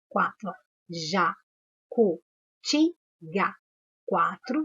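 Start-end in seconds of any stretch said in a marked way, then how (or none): 1.9-3.5 "Jacutinga" split slowly into ja-cu-tin-ga, a clear pause after each; sílaba por sílaba. Shown as a demonstration. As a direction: say "Jacutinga" in separate, drawn-out syllables. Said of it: "quantas vezes eu abri a boca". ("Jacutinga" bem devagar, separando ja-cu-tin-ga)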